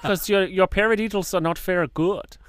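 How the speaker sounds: high, loud mock German drum teacher; imitating drum teacher. Drum teacher nagging his student about paradiddles, high and loud. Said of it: "He sounds adorable".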